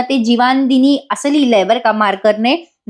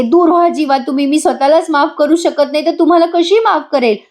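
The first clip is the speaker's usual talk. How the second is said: higher, insistent outburst; mild acted shout; 5 semitones higher than usual. Nandini orders Jiva away after the dream, mild acted shout. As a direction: cry out with raised pitch, little extra volume. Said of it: "खूप मोठ्याने ओरडते".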